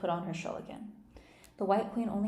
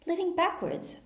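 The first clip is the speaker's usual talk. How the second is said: much higher and louder in disbelief; Alice, astonished by the Queen, much higher and louder; 11 semitones higher, 5 dB louder than usual. A narrator's reading. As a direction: gasp it out, amazed. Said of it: "in great astonishment".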